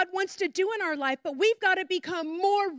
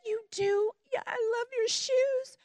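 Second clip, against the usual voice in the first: put-on higher, gentle answer to a child; tender reply; 5 semitones higher than usual. Jade answering the little girl.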